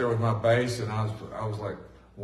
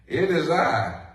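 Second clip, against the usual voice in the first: reassuring Jesus; 3 semitones higher, slower than usual. Acted. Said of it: "That's what it says".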